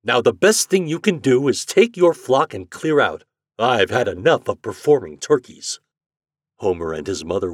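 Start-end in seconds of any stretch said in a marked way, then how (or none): 0.0-5.8 loud, firm dismissal; resolute. A narrator's reading. Store owner telling boy to clear out, resolute. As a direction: send him packing with resolve. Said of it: "said Mister Richards resolutely".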